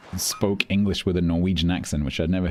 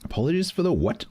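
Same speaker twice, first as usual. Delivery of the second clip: puzzled disbelief; 12 semitones higher than usual. Real, not acted. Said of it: "Omega gaping?".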